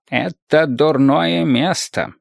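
a hint of an ominous warning; lightly voiced evasive father. A narrator's reading. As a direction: draw it out as a simple caution. Mr Owens's terse evasive answer.

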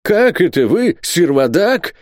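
high-pitched cry of surprise; astonished exclamation. A narrator's reading. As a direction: exclaim in astonishment at an unexpected friend. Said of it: "вскричал майор". (удивлённый возглас)

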